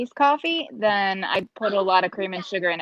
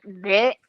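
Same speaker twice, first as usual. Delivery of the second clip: retold yuck noise; disgusted bleh. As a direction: imitate a kid's "bleh" at a bad taste. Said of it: "and I did not like it".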